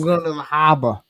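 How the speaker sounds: quick Boston accent. Shown as a demonstration. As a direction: drop the r's in harbor, Boston style. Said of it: "I can do a Boston accent".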